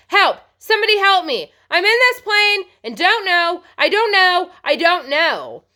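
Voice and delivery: put-on a terrified boy screaming into a radio; panicked screaming. Alone in a plane, boy screams for help, panicked. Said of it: "He began to scream into the microphone".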